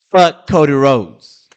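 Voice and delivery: slow, low, loud angry curse. Real, not acted. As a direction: spit out the curse slowly. Angry outburst at wrestler.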